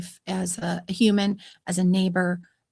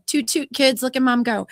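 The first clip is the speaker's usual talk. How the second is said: tooting own horn; 5 semitones higher, 3 dB louder than usual. Real, not acted. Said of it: "my own horn".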